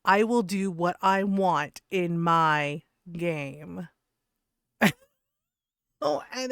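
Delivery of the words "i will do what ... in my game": mock calm. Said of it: "and very calmly said".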